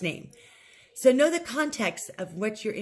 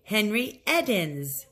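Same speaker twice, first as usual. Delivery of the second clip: slow model name; slower than usual. Shown as a demonstration. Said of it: "Say the phrase after Gustavo says Henry's name".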